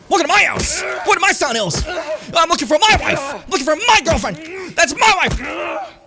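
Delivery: high, loud mock accent shout; shouted Borat impression. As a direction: yell in a hammed-up foreign voice.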